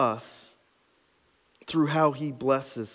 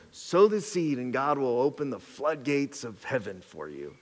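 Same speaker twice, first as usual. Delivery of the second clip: lightly mock the televangelist pitch; TV preacher voice; 3 dB quieter than usual. Pastor mocking preachers on TV, lightly hammed-up televangelist. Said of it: "Almost did an accent".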